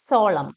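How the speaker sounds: സോളം as "SOL-um", ending on M; silent N. Shown as a demonstration. Teacher models the word, silent final N. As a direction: close സോളം on the M, no N. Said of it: "എൻ silent ആയിട്ട്".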